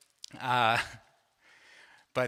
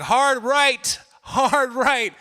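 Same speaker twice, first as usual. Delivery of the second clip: loud, high urgent shout; yelling commands; 9 semitones higher, 7 dB louder, much slower than usual. Retold or imitated. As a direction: bark steering orders before the rock. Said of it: "and I'm like".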